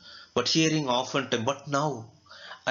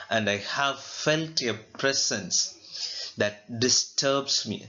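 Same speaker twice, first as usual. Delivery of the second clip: poet's line recited; slower than usual. Acted. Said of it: "very beautifully the poet says".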